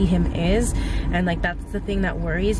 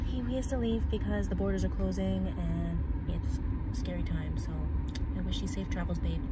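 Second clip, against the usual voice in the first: sad; 2 semitones lower, 7 dB quieter than usual. Real, not acted. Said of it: "I'm so sad".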